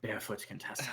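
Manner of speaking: soft, voiceless whisper; whispered reveal. Acted. Club owner reveals she knows the visitor's alias, whispered. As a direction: drop the secret name in a whisper. Teasing reveal of secret name.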